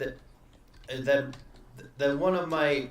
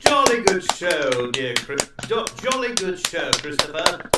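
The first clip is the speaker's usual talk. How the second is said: pompous sputtering colonel; 7 dB louder than usual. Acted. Mock toast to Christopher.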